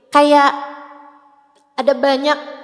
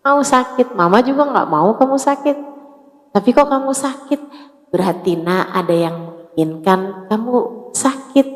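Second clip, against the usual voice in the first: gentle mother. Retold or imitated. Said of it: "Kita bilang sama anak kita".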